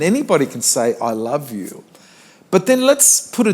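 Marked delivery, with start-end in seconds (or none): 1.0-1.8 throwaway line. Shown as a demonstration. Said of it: "love is like a throwaway line".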